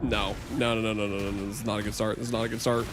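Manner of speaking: quiet, low despair; sinking disappointment; dismayed groan. Real, not acted. Losing badly, dismayed.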